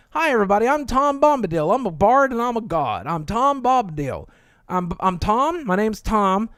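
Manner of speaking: lightly voiced jolly Tom Bombadil introducing himself; a hint of a cheerful old bard. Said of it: "another fun one to say".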